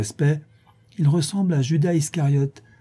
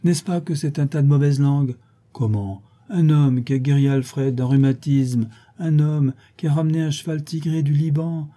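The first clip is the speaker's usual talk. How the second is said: raised, insistent indignation; indignant; 5 semitones higher than usual. Acted. Portress defending the charlatan against slanderers, indignant. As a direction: pile up each proof in outraged defence. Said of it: "madame Pipelet manifestait son indignation contre les calomniateurs".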